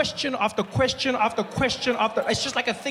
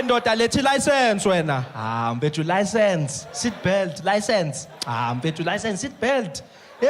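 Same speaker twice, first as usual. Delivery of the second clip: barking license and seatbelt; South African cop demanding papers; traffic cop voice; 3 semitones lower, slower than usual. Retold or imitated. Metro cop roadside demands.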